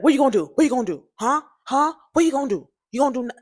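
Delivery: retold confrontational jeer; aggressive taunt. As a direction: taunt him like she's itching for a fight. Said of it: "she was so aggressive".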